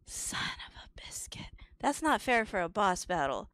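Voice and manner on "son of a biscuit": frustrated whisper; muttered substitute swear. Real, not acted. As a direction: whisper it under your breath. Substitute swear after penalty.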